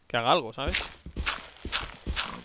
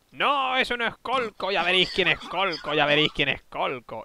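witch voice; 3 semitones higher than usual. Retold or imitated. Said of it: "¿Pero con voz de bruja?".

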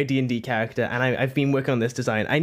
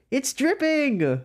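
higher, slow, drawn out; dramatic repeat; 9 semitones higher, much slower than usual. Pretend. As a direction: stretch it out high and slow. Dramatic repeat of same words.

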